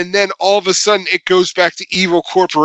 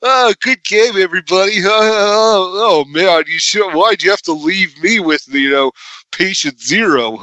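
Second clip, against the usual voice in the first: put-on cheery gamer teen; 4 semitones higher than usual. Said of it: "they're like".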